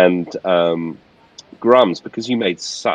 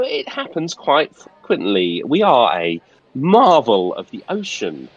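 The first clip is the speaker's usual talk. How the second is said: posh steward voice. Acted. Steward answers the player.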